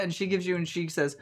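usual speaking voice

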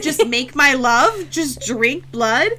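drawn-out, incredulous question; imitating an appalled objection; mock outrage. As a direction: stretch each word in disbelief. Acted outraged protest in retelling.

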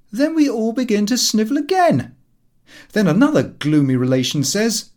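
put-on high, loud, ranting young man; radical speech. A narrator's reading. Son ranting about gloomy family Christmases. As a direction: rant scornfully against family Christmas. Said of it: "obliged us with the following radical speech".

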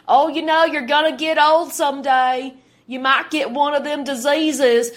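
hammed-up country hick imitation; mock hick accent. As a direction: scare folks in a mock hick twang. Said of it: "they totally talk like hicks with this".

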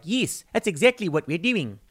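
put-on New Zealand accent. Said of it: "I can't do a New Zealand accent".

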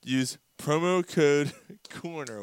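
slow read breaking into a laugh; laughing through it. Real, not acted. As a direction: laugh mid-line. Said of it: "I was doing so well at that point".

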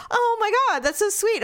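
high, gushing mock-sweet reaction; touched gushing. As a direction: imitate a partner cooing at something sweet. Acted partner's touched reaction.

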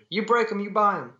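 high-pitched jeering call; mock shout. A narrator's reading. Heckler quipping at Frankie over broken glasses, high-pitched call. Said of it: "someone shouted".

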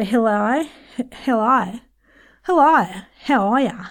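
broad Antipodean vowels on the greeting; Antipodean accent. Shown as a demonstration. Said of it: "jump over to the Antipodean region".

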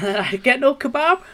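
livid. Retold or imitated. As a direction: let the fury burst out. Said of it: "You were livid".

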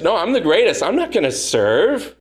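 imitating a proud, self-important disciple; proud boasting. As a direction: brag that you're the greatest. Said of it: "That's their attitude".

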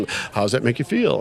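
lightly voiced counselor musing; therapist voice. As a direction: ponder it like a therapist. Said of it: "he's a therapist".

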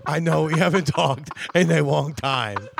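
put-on Japanese accent. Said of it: "talking in an accent".

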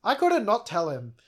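hammed-up protest to a friend; mock-indignant retort. Acted quarrel, accusing a friend.

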